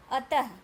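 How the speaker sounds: अतः said loudly with an audible final h; visarga demonstration. Shown as a demonstration. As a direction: model अतः for the class, h after त. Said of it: "मेरे साथ आप उच्चारण करेंगे". (अतः के अंत में ज़ोर से ह)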